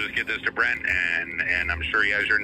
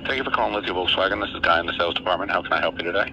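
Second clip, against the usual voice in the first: phone speaker; faster than usual. Real, not acted. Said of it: "I have you on speaker".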